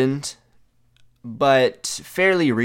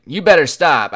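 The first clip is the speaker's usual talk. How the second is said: milder mock yell, somewhat higher and louder; imitated yelling; 4 semitones higher, 6 dB louder than usual. Father shaking the visitor's hand while confused, imitated yelling. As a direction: raise the voice as a confused, angry dad. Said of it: "kind of confused while yelling at me".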